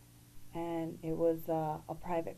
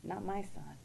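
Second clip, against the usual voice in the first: hushed denial; 6 dB quieter than usual. Retold or imitated. Husband's denial at diagnosis.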